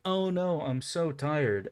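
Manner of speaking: high, slow, fake weary sigh; sighing mock exhaustion; mock tired goddess. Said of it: "and she's like".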